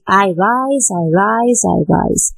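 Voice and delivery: "I rise" repeated with a slight swell on each "rise"; rising intonation. Shown as a demonstration. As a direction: chant "I rise" evenly, each "rise" lifting slightly. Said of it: "there is a rising intonation".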